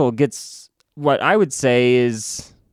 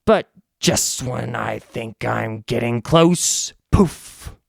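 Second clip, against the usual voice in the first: slow, theatrical villain musing; villain reply; 3 semitones higher, slower than usual. Acted. Villain boasting to the band about the chosen, slow and theatrical. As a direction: savor the poof, drawing it out. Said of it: "he says".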